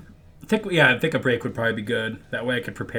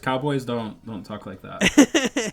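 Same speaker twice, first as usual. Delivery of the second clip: laughing; 3 semitones higher, 4 dB louder, much slower than usual. Real, not acted. Mocking friend's bad cowboy voice.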